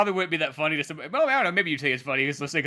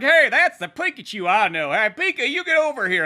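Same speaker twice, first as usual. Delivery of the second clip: lightly voiced Bill calling over, higher pitch; 7 semitones higher, 5 dB louder than usual. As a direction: pitch climbs as you call someone over. Acting Bill calling Pikachu over.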